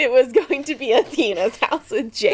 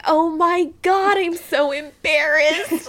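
mock embarrassment; 5 semitones higher, slower than usual. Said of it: "So I'm like".

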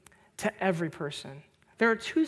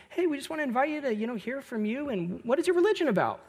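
higher, quick friendly invitation; overly nice; 6 semitones higher, faster than usual. Retold or imitated. Students welcoming guests from other religions, overly nice. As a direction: lightly imitate kids being super nice. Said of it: "they were so nice to him".

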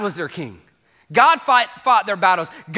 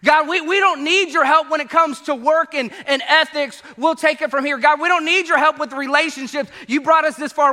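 loud, raised voice waving God away; defiant crowd; 8 semitones higher, 4 dB louder than usual. Retold or imitated. People telling God to back off, loud defiance. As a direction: push God off, loud and cocky.

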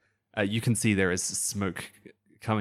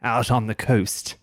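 slow, loud, high alien voice; alien villain voice; 4 semitones higher, 6 dB louder, slower than usual. Acted. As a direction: declare it like a gloating alien villain. GM continues the villain's broadcast.

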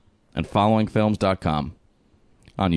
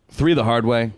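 movie trailer voice; 4 semitones higher than usual. Pretend. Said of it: "I did the, the long trailer guy".

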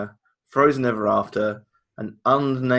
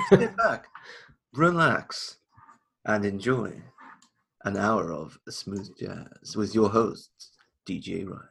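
late night jazz DJ; slower than usual. Pretend. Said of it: "listen to some smooth jazz".

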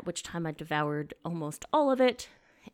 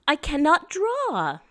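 Abby's sad cannot; 10 semitones higher, 8 dB louder, slower than usual. Retold or imitated. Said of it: "she will say".

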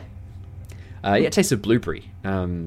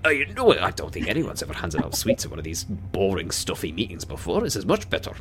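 Onthar's remark. Acted. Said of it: "Onthar's gonna say that".

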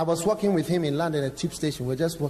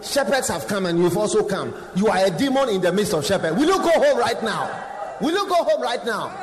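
loud mocking accuser; devil taunting; 3 semitones higher, 5 dB louder than usual. Devil mocking a preacher among shepherds, loud taunt. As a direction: jeer it out as the devil.

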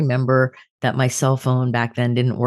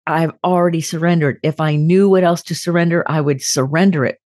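higher-pitched, hurt protest; escalated, pained upset; 5 semitones higher, 3 dB louder than usual. Retold or imitated. Telling a friend she has already surrendered, escalated and upset. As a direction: retell an upset outburst, pained rather than angry. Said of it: "in a very escalated kind of, um, upset voice".

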